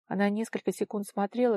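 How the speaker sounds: ordinary delivery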